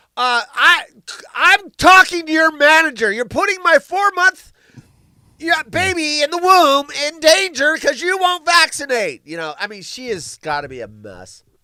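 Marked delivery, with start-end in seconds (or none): 0.2-9.3 loud, high-pitched, complaining customer voice. Imagining a pregnant woman questioning a cashier from ten feet back: imitating a pregnant customer.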